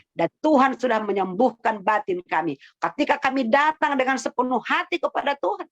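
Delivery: lifted, earnest prayer voice, swelling on the pleas; fervent prayer. Acted. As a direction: pray aloud for the congregation, rising at the end. Leads the closing prayer.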